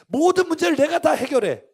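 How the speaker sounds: high, loud declaration; emphatic preaching. Real, not acted. Preacher exposing self-reliance, loud and emphatic. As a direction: hammer out every word.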